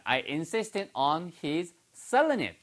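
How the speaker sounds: each word spaced out slowly for learners; slow English model read for students to repeat; slow model sentence. Shown as a demonstration. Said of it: "your turn".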